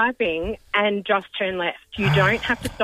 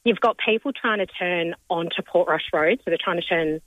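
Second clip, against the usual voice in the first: hoarse cold voice, holding back yelling; croaky from a rip cold. Real, not acted. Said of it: "really badly wants to yell, but she can't".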